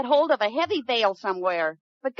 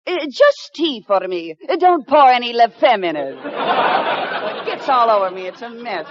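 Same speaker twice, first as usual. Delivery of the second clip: fake French accent; 4 semitones lower than usual. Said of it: "she has a decided French accent".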